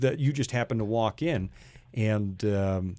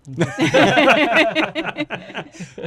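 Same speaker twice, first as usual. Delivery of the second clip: loud burst of laughter; big laugh; 10 semitones higher, 7 dB louder than usual. Real, not acted. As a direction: really crack up. Joke about white light.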